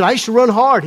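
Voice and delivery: imitated Atlanta man telling his testimony; attempted Atlanta accent. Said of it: "he's telling the story in his accent".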